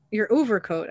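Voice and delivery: overcoat said with an odd, almost Canadian vowel; weird overcoat. Shown as a demonstration. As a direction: repeat overcoat in a quirky accent-tinged way. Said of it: "I said that weird".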